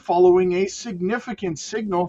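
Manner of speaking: measured, emphatic headline-and-story read; news read. Real, not acted. Streamer reading Fed rate news to viewers, newsreader delivery. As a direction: read the article out like a newscaster.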